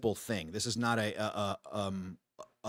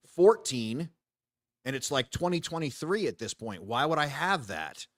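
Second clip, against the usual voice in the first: exasperated outburst; 3 semitones higher, 3 dB louder than usual. Retold or imitated. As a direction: rant like you can't believe the demand. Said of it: "And I'm like".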